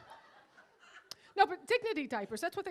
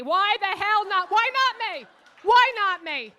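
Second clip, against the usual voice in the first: loud hammed-up demand, higher and louder; comic outburst; 6 semitones higher, 13 dB louder than usual. Comic pleading to the audience, loud and mock-indignant. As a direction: shout the why-not-me like a mock protest.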